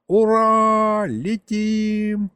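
высокий громкий радостный возглас; кричи от восторга, голос вверх; восторженный крик. Acted. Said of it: "а Гришка восторженно заорал". (Гришка в восторге орёт: ура, летим)

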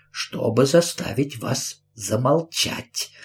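menacing repeat. Acted. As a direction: savour the threat quietly. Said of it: "повторила мисс Прайс, улыбаясь".

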